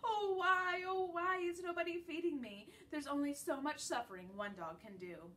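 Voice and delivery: high, loud hammed-up wail; crying moan. A narrator's reading. Dog rolling on his back, wailing theatrically. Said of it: "I cry and whimper and whine".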